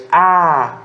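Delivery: "a" drawn out and emphasized; stronger stressed syllable. Shown as a demonstration. Teacher showing the tonic alpha to students, "a" stressed and held. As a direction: lean on "a" as the tonic sound. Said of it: "com a sílaba mais forte".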